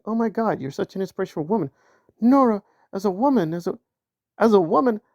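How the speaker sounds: parodying commenters gushing over Nora; mock gushing. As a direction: ham up the fawning praise. Mocking gushing fan comments.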